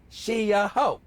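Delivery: loud, high catchphrase delivery; Riley. Acted. Closing the running bit with partner, loud Riley impression. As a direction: belt it out as the clincher. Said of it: "bring out the Riley".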